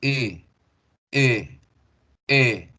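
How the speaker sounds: "E" with rounded lips as if saying O; English long E. Shown as a demonstration. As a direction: thicker rounded E sound. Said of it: "digo la letra E".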